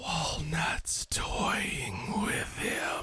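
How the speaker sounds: very slow, breathy, close whisper into ear. Voicing something that whispers in a character's ear: whispering. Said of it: "something just whispers in your ear".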